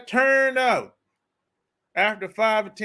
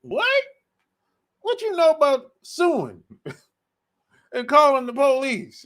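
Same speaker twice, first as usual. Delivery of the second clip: mock shock; 4 semitones higher, 6 dB louder, slower than usual. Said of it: "I'm like".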